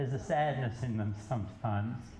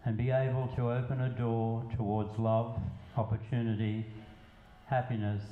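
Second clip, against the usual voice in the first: measured poetry reading with pauses between lines; spoken verse, evenly paced; poem recitation. Acted. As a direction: recite it line by line, letting each phrase land. Recites own poem to audience.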